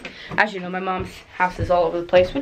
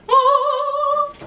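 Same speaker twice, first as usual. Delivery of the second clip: surprised. Real, not acted. Mom sews dress she's wearing.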